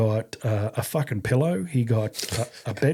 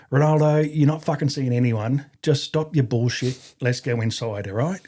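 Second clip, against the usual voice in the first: a mock Cockney order; Cockney accent; 3 semitones higher than usual. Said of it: "he did it in a really strong Cockney accent".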